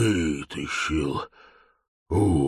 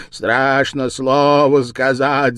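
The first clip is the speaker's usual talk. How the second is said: louder, slow bleating; bleating ram; 4 semitones higher, 8 dB louder than usual. Acted. The ram's head mocks grandpa with a bleat. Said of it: "заблеяла баранья голова".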